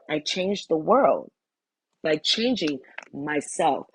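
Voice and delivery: deliberate affirmation reading with spaced phrases; measured recital. Real, not acted. Reader opening herself to the truth, measured recital. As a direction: recite each statement with weight, pausing between. Reads channeled message aloud.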